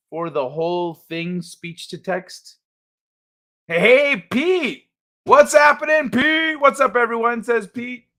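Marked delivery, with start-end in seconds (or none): 3.7-7.4 high, drawn-out hail to a friend; excited greeting. Real, not acted. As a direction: call out happily as a buddy arrives. Greets newcomer Pete by calling out.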